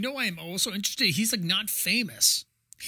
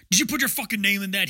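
quick, mildly acted demand; hard-edged mock interrogation; hard-edged Dumbledore; 3 dB louder, faster than usual. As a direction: fire it off as an accusing headmaster. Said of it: "hard-edged".

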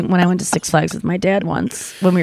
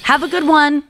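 fake nice; 7 semitones higher than usual. Shown as a demonstration. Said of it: "You sound like you're being nice".

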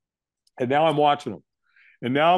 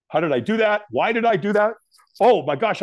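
retold disbelief; 6 semitones higher than usual. Acting out panicked disbelief afterwards.

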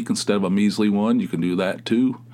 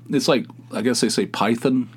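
usual speaking voice

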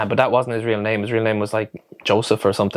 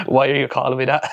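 put-on light Australian-accented puzzled question; 3 semitones higher than usual. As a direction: imitate a baffled lad with an Australian accent. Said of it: "had an Australian accent".

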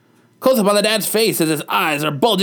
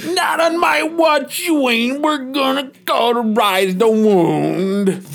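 shouting dad; 4 semitones higher, slower than usual. Acted.

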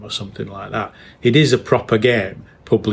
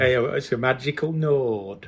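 laughing; 4 semitones higher, 4 dB quieter, slower than usual. Real, not acted. Joking about funny word.

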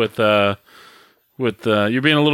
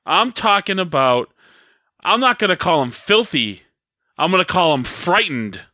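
mock wrestling promo, calling out a rival; deliberate grievance, pausing after each accusation; dramatic mock call-out with pauses; hot and heavy. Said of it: "hot and heavy here".

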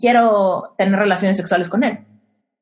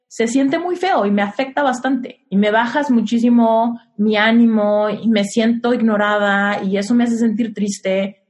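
gentle vulnerable tone; 2 semitones lower than usual. Shown as a demonstration. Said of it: "desde mi energía femenina totalmente transparente".

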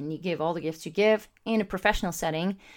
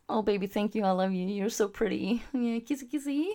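softer, playful lovey-dovey voice; mock romantic cooing; 2 semitones higher, 4 dB quieter than usual. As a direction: coo it like a mock sweetheart. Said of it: "you would say".

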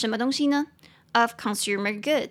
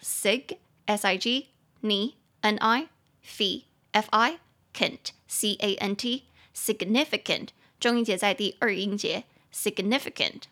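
spelled out slowly; much slower than usual. Shown as a demonstration. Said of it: "四个音节".

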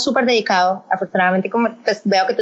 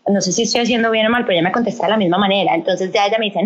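usual speaking voice

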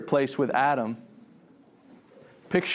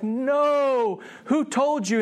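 high, drawn-out anguished no; sorrowful, not angry; 10 semitones higher, much slower than usual. Acted. God questioning Adam after the fall, sorrowful. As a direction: protest in grief rather than anger. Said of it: "not this angry, frustrated, mean God".

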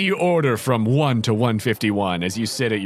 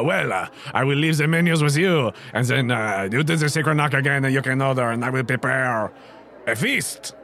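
French chef voice. Acted. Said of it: "He says".

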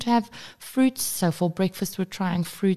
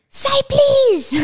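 very high, loud mock scream; retold yell; 6 dB louder than usual. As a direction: re-enact a mum screaming at her child. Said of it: "I yelled at him and I said".

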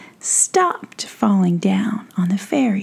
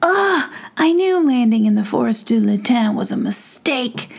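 sputtering; 2 semitones higher than usual. Acted. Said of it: "sputtered Iris".

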